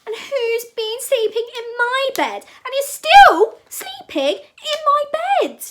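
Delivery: very high, loud tiny bear squeal; Teeny Weeny Baby Bear. A narrator's reading. Baby bear finds someone in his bed, teeny high wail. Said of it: "Baby Bear in his teeny weeny voice".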